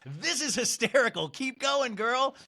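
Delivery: high-pitched mock fan gushing; lifted, gushing hype voice; encouraging cheer. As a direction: imitate an amused fan egging her on. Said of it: "Like, encouraging you".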